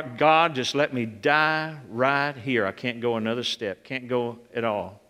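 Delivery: a broken man giving up; hopeless prayer. Retold or imitated. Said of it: "retold prayer under the car".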